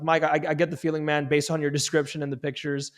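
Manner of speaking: a little smile in the voice; playful, easygoing sales pitch with slight hesitations. Shown as a demonstration. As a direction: pitch it casually, as if half smiling. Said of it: "that little smile is called a playful tone".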